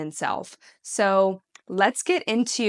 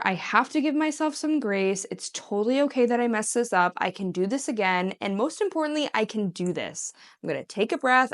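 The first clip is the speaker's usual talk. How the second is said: compassionate self-talk; faster than usual. Shown as a demonstration. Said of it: "that loving, compassionate, patient guardian".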